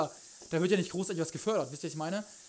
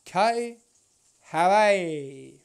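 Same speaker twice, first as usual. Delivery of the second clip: cute anime streamer; 9 dB louder, much slower than usual. Acted. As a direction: coo the donor's name sweetly. Cooing donor name. (süße Anime-Streamer-Stimme)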